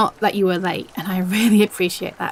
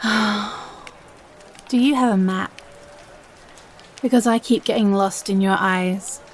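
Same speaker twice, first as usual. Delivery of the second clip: cheesy pickup line; slower than usual. Acted. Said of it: "these are my lines".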